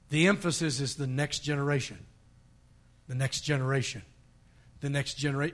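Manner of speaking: low, soft and weighty; hushed emphasis. Real, not acted. Preacher repeating the key point to the congregation, hushed emphasis. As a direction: drop the voice to let the point sink in.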